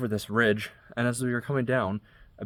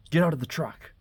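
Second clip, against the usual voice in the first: higher, sharp barked order; mock yell of the knife-waving man; a mild mock shout, pitched up; retold scream; 7 semitones higher than usual. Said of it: "he starts screaming".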